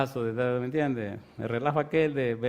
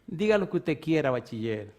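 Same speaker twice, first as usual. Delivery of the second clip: contemptuous. Retold or imitated.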